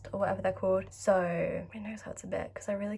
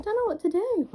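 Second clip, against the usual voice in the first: high, loud breathy panic; overwhelmed, almost squealing; frantic whisper; 11 semitones higher, 8 dB louder than usual. Real, not acted. Fan overwhelmed by album news, frantic whisper.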